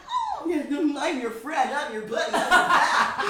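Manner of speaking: very high, cutesy friend impression; hammed-up supportive pal, laughing; mock-sweet friend. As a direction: tease with a sugary high voice. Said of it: "you've always been like".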